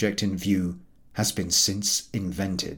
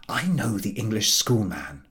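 whisper. Acted. Manager continues his secret plan.

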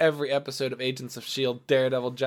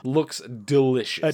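slow, dry sarcasm; sarcastic; much slower than usual. Acted. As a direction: drawl it out deadpan. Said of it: "It does not look delicious".

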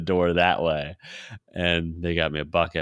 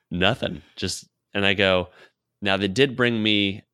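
usual speaking voice

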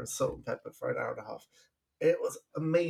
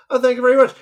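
put-on New York Jewish accent; 11 semitones higher, 14 dB louder, much faster than usual. Retelling answering in his stage accent.

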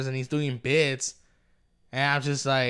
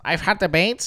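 self-mocking, slightly higher boast; mock nerdy; 4 semitones higher, 3 dB louder than usual. Shown as a demonstration. Making fun of himself for bragging about debates, mock nerdy. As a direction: poke fun at your own nerdy claim. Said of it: "How nerdy".

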